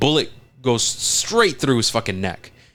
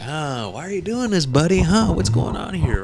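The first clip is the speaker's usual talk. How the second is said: raised, puzzled questioning voice; high mock confusion; 8 semitones higher than usual. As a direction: act baffled, pitched up. Acting out confused character.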